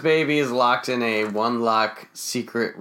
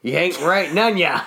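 put-on drunk redneck voice; 5 semitones higher, 5 dB louder than usual. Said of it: "He's like".

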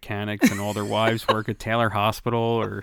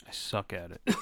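whispered; 3 semitones lower, 8 dB quieter than usual. Real, not acted. Quiet self-admission.

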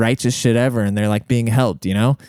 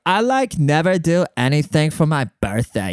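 put-on "like" jumps way up, airy Valley girl lilt; mock Valley girl, pitched high on "like"; 4 semitones higher than usual. Shown as a demonstration. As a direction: lean into the Valley girl upspeak on "like". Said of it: "I just sounded like a Valley girl".

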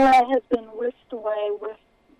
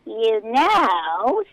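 squeaky voice; 5 dB louder than usual. Acted. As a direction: squeak it right into her ear. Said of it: "squeaked the voice right into her ear".

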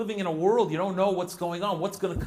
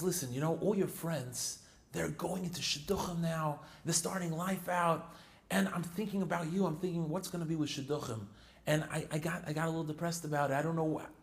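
a softer, sadder father confiding; 6 dB quieter than usual. Retold or imitated. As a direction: let the father admit his worry quietly. Father voiced in story.

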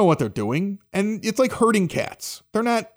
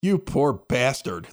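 slow, low, drawn-out commiseration; imitated pity; 4 semitones lower, much slower than usual. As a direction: voice another dad's pitying look. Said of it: "he looked at me with this pity".

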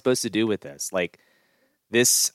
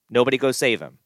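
raised, emphatic order; stressed command, higher and louder; louder insistent repeat; 4 semitones higher, 5 dB louder than usual. Shown as a demonstration. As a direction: drive it home louder.

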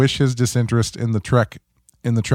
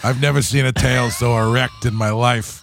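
brand manager voice. Retold or imitated. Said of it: "I was doing the brand manager voice".

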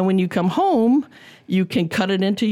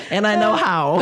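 laughing; 4 semitones higher than usual. Real, not acted. Laughing at her own joke.

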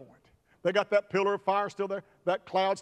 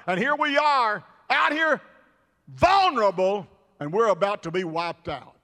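rising, exasperated lament to God; acted bitter regret; aggrieved complaint; 3 semitones higher than usual.

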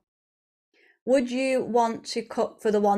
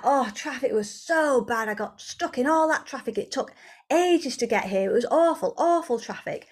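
mock moaning; 3 semitones higher than usual. Delayed partner walking into the kitchen, mock moaning. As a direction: complain like a fed-up partner.

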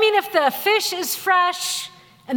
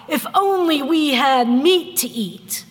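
a touch of whiny lament, slower; mock whiny crying. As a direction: lightly play the people moaning for meat. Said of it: "They complain and they cry".

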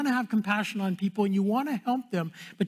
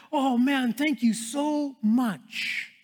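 overwhelmed thanks; 4 semitones higher, much slower than usual. Retold or imitated. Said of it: "their heart is overwhelmed".

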